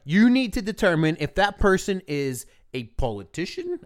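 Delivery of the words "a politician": slipping into a mock Russian accent; lightly Russian-accented; accidental Russian accent. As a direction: let a hint of fake Russian creep in. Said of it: "why I did the Russian accent".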